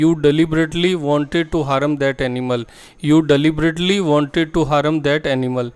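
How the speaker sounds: very slow and clearly spaced, word by word; slow model sentence. Shown as a demonstration. Teacher to Hindi-speaking students, modelling the English sentence slowly. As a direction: spell the sentence out slowly for learners. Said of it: "next sentence है".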